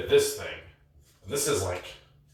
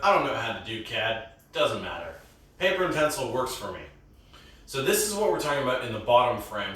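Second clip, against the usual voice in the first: wired up. Real, not acted. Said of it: "I am wired up".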